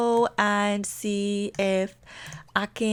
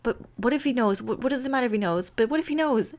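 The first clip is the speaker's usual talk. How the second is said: rapid, repetitive acted fretting; mildly acted nervous spiral; freaking out; faster than usual. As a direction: fret in circles, tripping over the words. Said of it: "like, freaking out".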